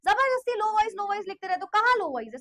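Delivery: loud exasperated scolding; annoyed retort. Real, not acted. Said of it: "low voice आ रही है?".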